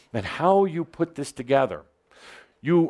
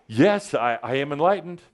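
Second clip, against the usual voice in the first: with attitude; 2 semitones higher than usual. Shown as a demonstration. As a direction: say it with a bit of swagger. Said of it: "say it with a bit of an attitude, some acting".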